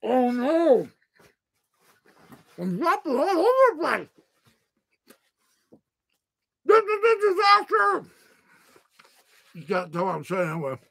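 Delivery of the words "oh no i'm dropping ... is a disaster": mock wail. Food spilling during livestream.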